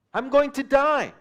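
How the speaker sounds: drawn-out, slow whiny panic rising at the end; mock frightened whine. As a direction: plead slowly, overplaying the fear. Disciples answering in fear.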